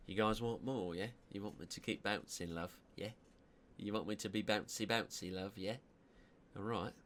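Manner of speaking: put-on a light cheeky London accent; British accent. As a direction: tease the chat like a Cockney. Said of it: "These are the accents I'm not allowed to do".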